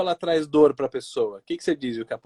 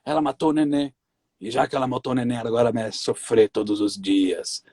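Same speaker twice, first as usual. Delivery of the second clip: possessed demon voice; 7 semitones lower than usual. Retold or imitated. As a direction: growl it out like a possessed spirit. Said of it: "sabe aquela voz do demônio". (voz grave de demônio possuído)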